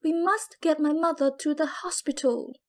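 urgent, tearful plea; crying out. Acted. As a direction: beg for the hospital. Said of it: "I turned to Philip and cried".

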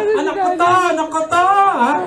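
high, proud boast; mother boasting in dialect; bragging mother. Retold or imitated. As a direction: show off your son to the neighbors. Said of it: "Pinagyayabang talaga".

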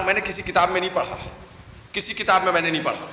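normal talking voice

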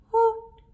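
high, loud owl hoo; owl hoot. Acted. Owl sound in rhyme.

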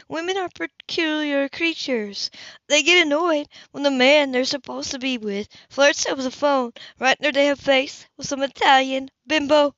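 scornful lecture from an offended woman; jealous Hannah. Acted. Jealous Hannah scolds Cam.

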